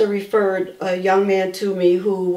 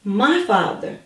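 quoting the husband; 4 semitones lower, much slower than usual. Retold or imitated. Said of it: "he said".

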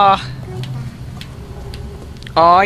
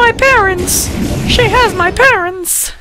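excited shout. Real, not acted. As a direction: burst out in joy. Repeats parents news, elated shout.

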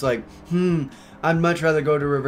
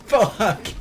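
raised, higher-pitched "fuck"; retold panicked curse; 7 semitones higher, 3 dB louder than usual. Driver retells slamming on his brakes, panicked curse.

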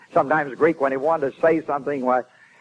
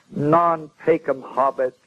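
recited Latin lament; slower than usual. Retold or imitated. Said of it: "then he said to himself".

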